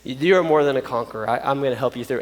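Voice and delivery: softly voiced reassurance; comforting. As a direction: gently encourage someone who is struggling. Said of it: "he will begin to comfort you".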